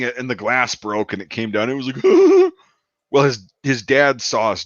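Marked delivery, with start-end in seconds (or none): 2.0-2.5 high, loud held hoot; imitated noise. Storyteller imitating the shot streetlight coming down, high hoot. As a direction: mimic it with a sustained high whoop. Imitates what followed the glass breaking.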